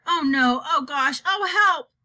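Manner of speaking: loud, rising yelps of disgust; girl gagging on foul food, panicking aloud; panicked. Acted. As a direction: cry out for help as the taste hits. Sophie spitting out vile food.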